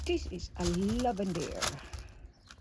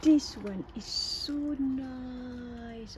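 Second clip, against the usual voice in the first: drawn-out delight; 3 semitones higher, much slower than usual. Real, not acted. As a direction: drag out every word in delight. Admiring a flower, drawn out.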